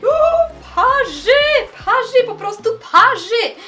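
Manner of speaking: loud yelp at scalding heat; burned by hot tea. Acted.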